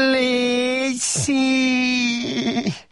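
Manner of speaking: very high, long drawn-out plea; begging. A narrator's reading. Donkey begs Shrek, very slow and high. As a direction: stretch the plea out, begging hard. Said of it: "rimánkodott".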